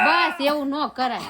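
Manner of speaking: mock telling-off through laughter; giggling no-no; laughing scold. Real, not acted.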